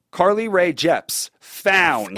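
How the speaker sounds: slow, drawn-out email subject; all-caps subject line. Acted. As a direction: read it like it's in capitals. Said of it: "In all caps".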